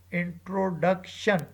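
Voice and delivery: "introduction" slow, with force on the third syllable, DUC; teacher's stress demo of "introduction", weight on DUC. Shown as a demonstration. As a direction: sound out "introduction" slowly, holding DUC longer. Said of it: "the third syllable D U C is said with force".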